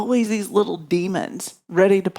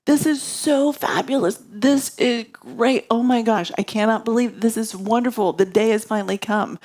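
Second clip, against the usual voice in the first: ecstatic; 5 semitones higher than usual. Retold or imitated. Queen hears Lord Ram will be crowned king, ecstatic. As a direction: gush as if overjoyed, pitch up high then settling. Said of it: "she's ecstatic".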